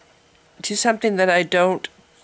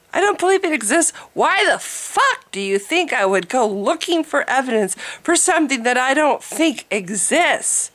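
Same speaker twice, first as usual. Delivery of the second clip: exasperated, higher-pitched rant; annoyed; 4 semitones higher than usual. Real, not acted. Vlogger rants at being told to seek evidence, annoyed. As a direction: demand an answer, fed up. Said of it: "I'm just annoyed".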